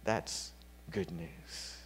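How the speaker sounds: slow, soft whispered aside; hushed whisper. Real, not acted. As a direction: let it sink in with a whisper. Quiet close to sermon point.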